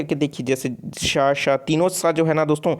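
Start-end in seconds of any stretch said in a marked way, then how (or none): 1.0-1.5 श sounded alone with an open vowel, twice; pronunciation demo. Shown as a demonstration. Teacher telling students to try the sound, demonstrating श. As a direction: say श as a separate syllable, then repeat it. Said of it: "तो आप एक बार उच्चारण करके".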